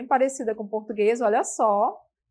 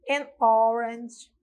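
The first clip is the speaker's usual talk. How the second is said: slow model phrase; 4 dB louder, slower than usual. Shown as a demonstration. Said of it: "olha, som O, bem fechadinho".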